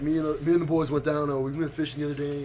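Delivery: lightly put-on American country accent; a hint of rural American country accent. Shown as a demonstration. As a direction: tell it like a country boy. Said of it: "you can do country".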